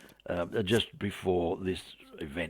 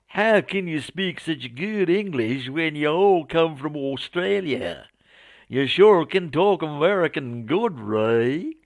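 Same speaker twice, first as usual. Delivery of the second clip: high, loud mock Southern drawl; hammed-up Southern American; Southern American accent; 6 semitones higher, 4 dB louder than usual. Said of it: "my poor attempt at a Southern American accent".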